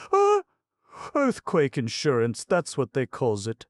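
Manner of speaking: put-on high, loud, scornful old tramp; ranting tramp. A narrator's reading. Crazed tramp jeering at the city's earthquake insurance, loud and high. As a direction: jeer it out like a wild street preacher.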